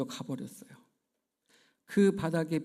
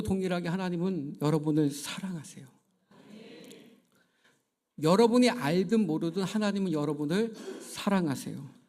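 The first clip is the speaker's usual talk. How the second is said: fervent sermon blessing, building louder; preaching; 3 dB louder than usual. Acted. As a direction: preach it to the congregation.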